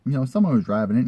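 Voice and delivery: imitating the seller. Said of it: "He's like".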